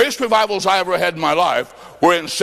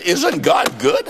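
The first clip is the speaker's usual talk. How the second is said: preaching shout; slower than usual. Real, not acted. Preacher rouses the congregation: "Isn't God good?" shouted slowly. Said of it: "repeated to the crowd".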